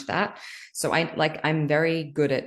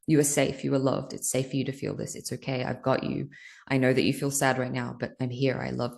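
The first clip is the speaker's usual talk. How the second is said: self-soothing mantra. Retold or imitated. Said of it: "That's been my mantra".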